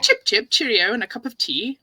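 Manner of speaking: British accent sound bite; British phrases. Shown as a demonstration. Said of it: "say some of these British phrases".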